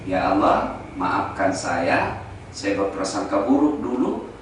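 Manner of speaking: low, slow retold prayer of apology; penitent prayer. Preacher retelling his prayer of thanks at home, low penitent plea. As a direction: recall a humble plea, drawing out the words. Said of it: "Saya lalu sujud syukur".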